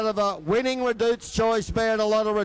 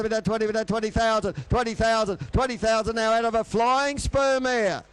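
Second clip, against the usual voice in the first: fast rhythmic auctioneer bid calling; frantic trading floor shouting. Acted. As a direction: rattle off the bids like an auctioneer.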